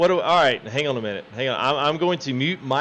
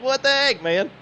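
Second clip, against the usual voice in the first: imitating an annoyed player; 10 semitones higher, 3 dB louder than usual. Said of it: "He's like".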